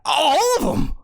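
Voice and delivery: fast, loud, high despairing wail that every duck is gone; anguished cry. Acted. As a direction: howl it out in despair. Danforth cries out missing ducks.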